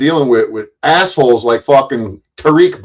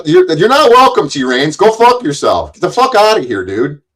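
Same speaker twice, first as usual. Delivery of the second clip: angry yelling; 5 semitones higher than usual. Real, not acted. Streamer yelling at a troll he banned, furious. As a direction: yell him off the line in real anger.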